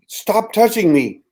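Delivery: high, slow, desperate protest; distressed plea. Retold or imitated. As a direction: beg him to stop, pitched high and slow. Hypnotised woman protesting being touched.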